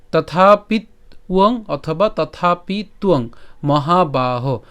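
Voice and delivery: slow, careful verse reading; shloka pronunciation run-through. Shown as a demonstration. Teacher goes from the start for learners, slow careful recitation. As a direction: pronounce each part slowly and separately. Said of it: "আবার যদি প্রথম থেকে উচ্চারণটি করি".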